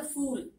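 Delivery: फूल said fool with an f; fa sound. Shown as a demonstration. Teacher shows फूल with nukta as fool. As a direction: say फूल with an English f. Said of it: "इसे कहेंगे फूल".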